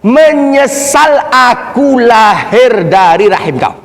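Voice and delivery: slow, drawn-out words of reproach; acted bitter son. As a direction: hurl it at the mother, stretching each word. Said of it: "Kalimat yang dia ucapkan kepada ibunya". (menirukan anak durhaka, lambat dan getir)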